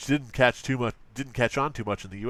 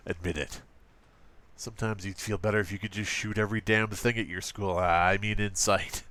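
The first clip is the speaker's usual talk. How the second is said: understated parody of an edgy ad, lower; 3 semitones lower, 3 dB quieter than usual. Acted. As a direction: read the slogan low with a mock slip. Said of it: "I keep doing this voice".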